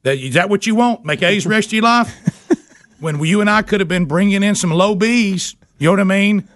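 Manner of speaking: high, giddy mock lecture with laughs; mock-scold the kid, half laughing; hammed-up rant. Dad ranting at son, laughing.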